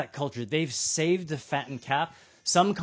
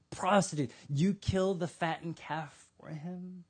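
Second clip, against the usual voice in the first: aggrieved, emphatic son's complaint; indignant lecture. Acted. Older son lectures his father, indignant. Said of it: "he lectures his dad".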